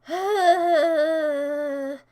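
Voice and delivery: loud, drawn-out exasperated sigh; long sigh. Real, not acted. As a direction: heave a long voiced sigh. Sigh after complaining.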